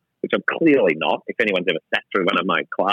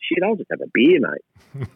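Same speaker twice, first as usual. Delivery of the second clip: exasperated; 5 semitones higher, slower than usual. Retold or imitated. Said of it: "I'm like".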